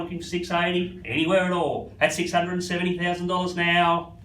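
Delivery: rhythmic auction bid calling; auctioneer calling. Real, not acted. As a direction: keep the bids rolling.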